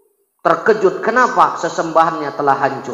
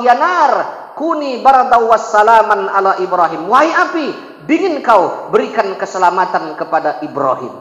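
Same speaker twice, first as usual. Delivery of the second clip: raised, solemn order to fire; divine command. Acted. God commands the fire to cool, solemn raised voice. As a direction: command the flames.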